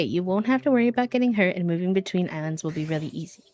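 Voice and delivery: sing-song voice. Acted. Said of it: "sing-songs his voice".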